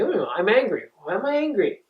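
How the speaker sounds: a counselor owning his anger, then wondering why; accepting anger. Shown as a demonstration. Open, curious acceptance. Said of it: "We're gonna say".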